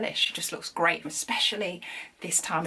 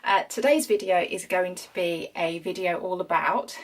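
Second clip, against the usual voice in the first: out of breath; breathless after rushing in; shallow breathing. Real, not acted. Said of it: "Sorry, I'm so out of breath".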